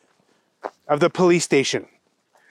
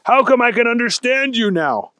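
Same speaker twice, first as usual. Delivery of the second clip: higher, emphatic storybook voice; puzzled special agent; 7 semitones higher than usual. Acted. Wendell asking Thunder Kitty, puzzled. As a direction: question it in raised bewilderment. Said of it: "said Special Agent Wendell Blaze".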